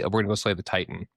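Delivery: "Titan" with the middle T swallowed into the n; quick line, a glottal stop in "Titan"; invisible T. Shown as a demonstration. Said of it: "do an invisible T".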